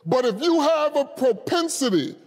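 impassioned, emphatic preaching. Real, not acted. Preacher telling the congregation God brings us out, fervent preaching. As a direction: drive each phrase home to the congregation. Preacher rises to full force.

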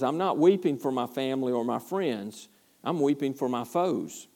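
soft, quiet and sincere; Paul gently correcting. Retold or imitated. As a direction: let it drop to almost a hush. Paul explains his tears.

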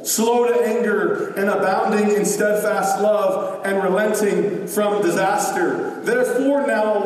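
measured, even Bible reading; steady scripture read-aloud. Acted. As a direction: read the passage to the congregation. Reads the Jonah passage aloud.

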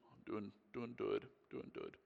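put-on small, quiet, slow child's reply; little boy voice. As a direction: lightly voice a shy little boy. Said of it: "He goes".

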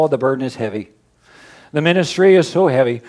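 mock-weary, drooping lament; a lightly hammed tired pastor; weary sigh. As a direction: play a pastor worn down by the ministry. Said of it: "if I start to go".

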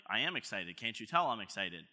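low, subdued claim of excitement; unexcited claim. Retold or imitated. Husband answering wife who doubts his excitement, unexcited. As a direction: insist you're excited without sounding it. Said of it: "How come you're not excited?".

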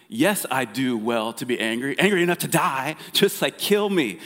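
kicking and screaming. Retold or imitated. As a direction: whine like a child stamping his feet. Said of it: "here's this kicking and screaming".

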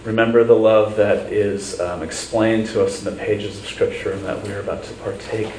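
measured prayer with long pauses. Real, not acted. Pastor leading the congregation in prayer, earnest and unhurried. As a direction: pray unhurriedly, phrase by phrase.

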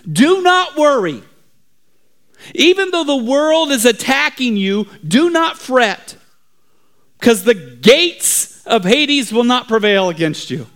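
preaching. Acted. Preacher addressing his church as he used to, preaching. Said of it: "preach and teach this verse in this way".

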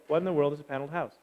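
fast audience echo. Shown as a demonstration. Congregation rattling off the question quickly. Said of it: "Say yes".

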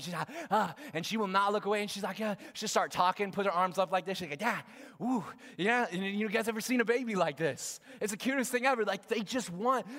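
high, fast-building, animated preaching; excited preaching. Real, not acted. Preacher describing baby lighting up at her father, preaching excitedly. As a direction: get carried away, then land each phrase emphatically.

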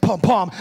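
forceful pum-pum pulse; imitated heartbeat. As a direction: pound out two heartbeats. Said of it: "hear that heartbeat".

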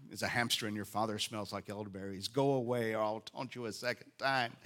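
mock French accent, hammed-up taunting; outrageous French accent. Jericho people jeering from the walls, in an outrageous French accent. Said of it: "audacious French accent".

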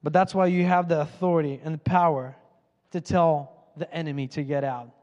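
rising, emphatic sermon delivery; preaching. Acted. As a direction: preach it with conviction. Preaching at force.

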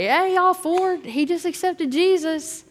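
calling out the big news to everyone; excited announcement. Retold or imitated. Youth pastor announcing Ford's conversion to the boys, excited call.

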